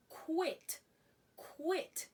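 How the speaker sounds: "quit" said alone as one crisp syllable; pronunciation model. Shown as a demonstration. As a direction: say "quit" slowly for learners, pausing between repeats. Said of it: "This word is pronounced as".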